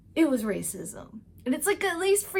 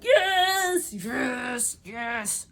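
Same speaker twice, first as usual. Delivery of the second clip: cheering yes; much slower than usual. Retold or imitated. Cheering as Micah tells Jose off, shouting yes. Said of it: "And I was like".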